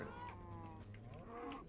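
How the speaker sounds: high, slow, soft light imitation; hint of a pop star. Streamer promising chat a better pop-star voice. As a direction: keep the soft pop-star voice. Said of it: "sounded like Jamie Foxx doing an impression".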